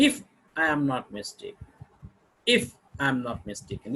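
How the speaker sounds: "If" set apart, then "mistaken" falling; rising-falling intonation. Shown as a demonstration. Lecturer models reservation to class, hesitant falling tone. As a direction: pause after "If", let "I am not mistaken" sink. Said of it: "what I told you about the rising, falling intonation".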